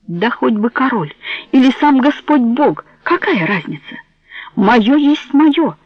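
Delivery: put-on fierce, resolute boy; determined. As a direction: hammer it home with resolve. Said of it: "В голосе Джованни было столько решимости".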